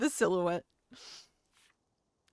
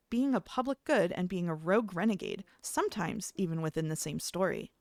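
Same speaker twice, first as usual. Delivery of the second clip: polished video essay narrator; YouTuber voice. Shown as a demonstration. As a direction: read it like a YouTube explainer. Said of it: "This is my YouTuber voice".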